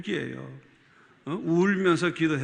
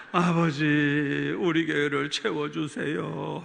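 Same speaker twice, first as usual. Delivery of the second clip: tearful prayer; 3 semitones lower, slower than usual. Retold or imitated. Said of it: "하면서 그냥 ... 울어야 돼".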